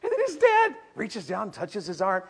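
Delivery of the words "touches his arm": ordinary talk, nothing marked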